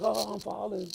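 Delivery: high, loud sneering echo; taunting parody of a cry; mocking mimicry. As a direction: mimic the victim to mock them. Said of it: "She's like".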